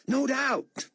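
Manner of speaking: shout. A narrator's reading. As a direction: shout it to be heard over the driver. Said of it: "David shouted".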